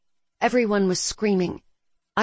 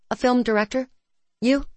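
surprised; 6 semitones higher than usual. Acted. Surprised question.

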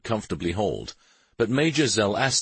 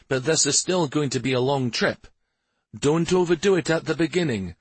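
higher, concerned father's voice; cautioning father; 7 semitones higher than usual. A narrator's reading. Father warning son about riding sore, cautioning. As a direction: caution your son against overdoing it.

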